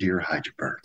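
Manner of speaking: inflection like reading a dear-john breakup letter. Imitating another speaker's earlier greeting: imitating an "I'm leaving you" letter tone. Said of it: "Your inflection of your voice".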